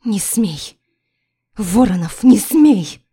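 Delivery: mother desperately crying out to keep her daughter; voice breaking. A narrator's reading. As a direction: scream until the voice cracks. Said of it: "Мой голос срывается".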